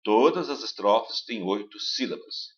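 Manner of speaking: Todas as estrofes têm oito sílabas said slowly, syllable by syllable; slow syllable count. Shown as a demonstration. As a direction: spell out each syllable slowly. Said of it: "contando sílabas". (sílabas contadas devagar)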